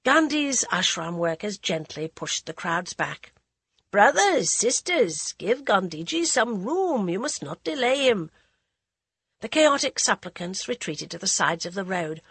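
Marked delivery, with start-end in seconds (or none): 3.9-8.3 raised voice calling out; calling to crowd. Acted. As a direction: ask the crowd to make room. Ashram worker calling crowd.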